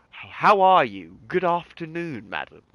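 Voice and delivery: well-spoken, posh British greeting with swooping pitch; posh English accent. Shown as a demonstration. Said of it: "what people would call posh".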